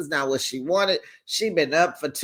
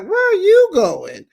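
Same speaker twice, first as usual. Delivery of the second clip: high, louder disbelieving call; mock shout after someone leaving; hammed-up shocked question; 7 dB louder than usual.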